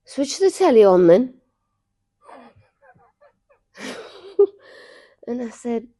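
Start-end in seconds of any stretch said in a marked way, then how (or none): 0.0-1.4 loud, slow sleepy command; sleep talking. Retold or imitated. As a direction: call it out slow and loud, half asleep. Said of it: "Then you said".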